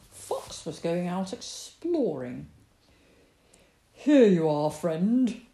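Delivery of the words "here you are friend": loud, hearty badger greeting; merry badger. A narrator's reading. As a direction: hand over a gift merrily. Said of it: "said Badger merrily".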